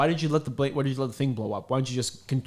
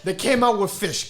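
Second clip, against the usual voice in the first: high, louder laughing rant; hammed-up storyteller voice; 10 semitones higher, 3 dB louder than usual. Quoting the bigfoot bit, high laughing rant. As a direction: rattle it off laughing, much higher. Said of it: "He's like".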